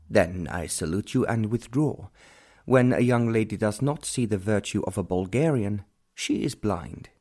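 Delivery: a lightly voiced proud Count, stiff and formal; offended Count. The Count leaving the young lady, lightly voiced proud dignity. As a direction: withdraw with a hint of wounded dignity.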